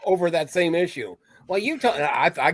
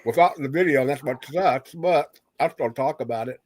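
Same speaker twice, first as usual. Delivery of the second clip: talking around a mouthful of ice; 3 semitones lower than usual. Real, not acted. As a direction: mouth full of ice, words slightly muffled. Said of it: "Sorry, I got ice in my mouth".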